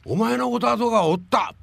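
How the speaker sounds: high, loud excited cry of recognition; retold director shouting in sudden recognition; excited exclamation. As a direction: call it out like spotting an old neighbour. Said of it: "いきなり".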